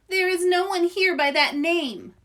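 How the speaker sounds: high, loud, lofty denial; loud, high grand fortune teller voice; haughty fortune teller. Acted. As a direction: play the grand mystic refusing her name. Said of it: "said a voice".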